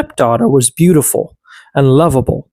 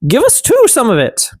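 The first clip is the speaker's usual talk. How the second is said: higher little elf voice; elf asking; 9 semitones higher than usual. A narrator's reading. Elf asking the girl for bread, higher voice. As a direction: ask sweetly, pitched up like an elf. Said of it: "The elf said".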